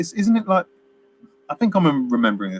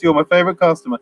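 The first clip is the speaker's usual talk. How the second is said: forced cheery line; 5 semitones higher, faster than usual. Retold or imitated. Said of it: "rushed and forced".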